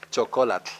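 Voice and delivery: Chocolate as cho-KO-latl; Nahuatl pronunciation. Shown as a demonstration. Teacher answering a student, Nahuatl pronunciation. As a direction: stress CO in Chocolate, end in hissed tl. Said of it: "the ko is second from last".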